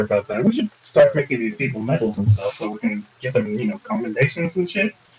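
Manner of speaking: low, quiet side remark. A player's character speaks to their party in a quieter voice. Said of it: "kind of like with a more quiet voice".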